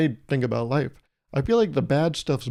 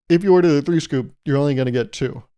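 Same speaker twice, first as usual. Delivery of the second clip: louder, insistent shop clerk; exasperated clerk; 5 dB louder than usual. Acted. Clerk repeating the rule to the customer, exasperated and louder. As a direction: spell it out to a dense customer.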